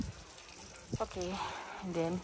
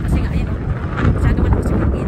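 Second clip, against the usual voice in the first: raised voice against the wind; loud over wind; 4 semitones higher, 7 dB louder, much faster than usual. Real, not acted. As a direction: shout over the gusts. Shouting over strong wind.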